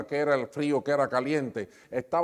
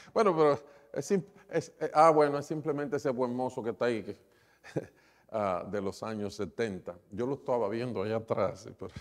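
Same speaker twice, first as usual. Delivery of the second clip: laughing aside; faster than usual. Real, not acted. Laughing at old photo on screen.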